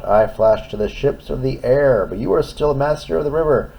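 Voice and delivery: high, loud urgent plea; urgent bridge voice. Acted. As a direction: urge him on. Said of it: "cried the bridge".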